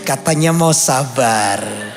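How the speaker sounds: tag. Acted. Recalls the reminder mid-outburst.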